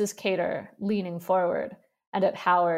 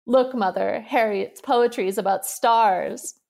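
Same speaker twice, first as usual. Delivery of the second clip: giggling tease; 3 semitones higher, 6 dB louder than usual. Acted. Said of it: "giggling and holding out the papers".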